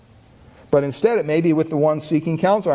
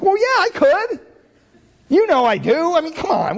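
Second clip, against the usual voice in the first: much higher, louder mock protest; indignant protest; 10 semitones higher, 3 dB louder than usual. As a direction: brush him off, half offended. Retold protest to his brother.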